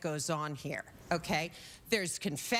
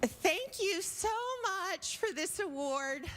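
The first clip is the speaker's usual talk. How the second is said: breathy porn star speech; 9 semitones higher than usual. Acted. Porn star accepting her award, tearfully gushing. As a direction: gush like a teary starlet at the mic. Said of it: "And she's like this".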